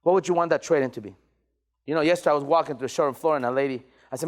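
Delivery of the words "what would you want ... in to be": measured question set off by pauses; slowed-down sales question. Shown as a demonstration. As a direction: let the question land unhurried. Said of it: "Slow down".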